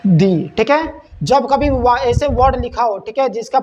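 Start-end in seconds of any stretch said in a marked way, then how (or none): 0.1-0.5 दी as "dee", rhyming with see; pronounced "dee". Shown as a demonstration. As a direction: say दी with a long ee vowel. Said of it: "then it pronunciate".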